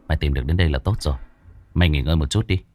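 calm pat on the back for the dog; Đen's voice. Acted. Đen praising the white dog, lightly voiced and quick.

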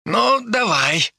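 slow, resigned agreement on a sigh; heavy sigh. Acted. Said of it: "с тяжёлым вздохом согласился Евген".

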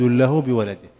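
slow, chanted recitation of the verse; Quranic recitation. Acted. Teacher reciting the verse to his students, slow and chanted. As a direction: intone the verse slowly, half sung.

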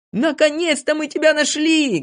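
high, excited exclamation; joyful greeting. A narrator's reading. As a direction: greet him with delighted relief. Joyful reunion with Знайка.

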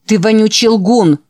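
angry shout. Acted. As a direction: yell it in his face. Boy yells accusation at bully.

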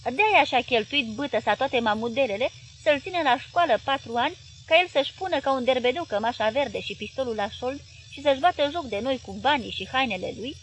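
loud, indignant husband's rant; angry rant. Acted. Husband ranting to his wife, loud and indignant. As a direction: let the anger pour out. Paraschiv rants angrily.

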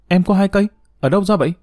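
high-pitched astonished questions; surprised. A narrator's reading. Xong learns Nga owns two guns, surprised. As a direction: pitch jumps up in amazement. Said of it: "Xong ngạc nhiên".

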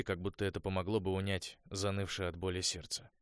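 usual speaking voice

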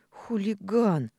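high, loud, slow mock scolding; drawn-out teasing "hooligan"; playful scolding. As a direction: tease him like a cheeky girl. Playful scolding between lovers.

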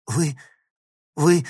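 halting, high-pitched angry stammer; speechless with anger. A narrator's reading. Girl faces the thief, speechless with anger. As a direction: break off after each word, lost for words. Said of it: "слов не находила от злости".

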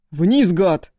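angry roar up into the branches; barked order. A narrator's reading. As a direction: bark it up at him in the tree. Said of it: "рявкнул Агун".

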